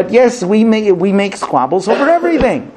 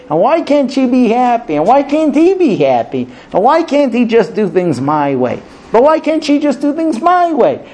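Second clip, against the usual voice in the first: higher-pitched mock marital griping; exasperated complaint; 5 semitones higher than usual. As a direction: act out a frustrated spouse's pleading complaint. Spouses' complaints acted out in turn.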